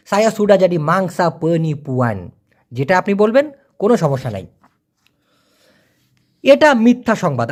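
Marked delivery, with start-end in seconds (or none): 0.1-2.3 very slow, every word clear; slow full Malay form. Shown as a demonstration. Teacher giving full Malay sentence, very slow. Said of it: "এই কথাটা পুরো ফুল ফর্মে".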